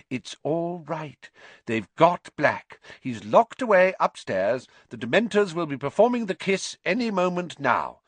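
lightly soothing nurse. A narrator's reading. Nurse settling an alarmed patient, soothing. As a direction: reassure the patient, voice a little lifted. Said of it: "said Madam Pumphrey soothingly".

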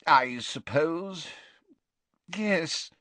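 slow, hesitant, agitated assent; rather agitated. A narrator's reading. Slughorn reluctantly assents, rather agitated. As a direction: agree reluctantly, pitch creeping up. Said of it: "in a rather agitated voice".

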